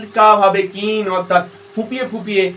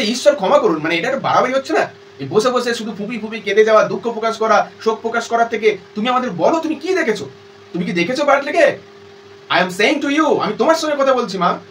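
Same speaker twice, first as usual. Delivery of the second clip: mildly exasperated, insistent reproach; impatient; 3 semitones higher than usual. Acted. Daughter urging her weeping mother to speak, impatient. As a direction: plead for an answer, a little fed up. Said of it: "Kathleen এবার অধৈর্য হয়ে যাচ্ছে".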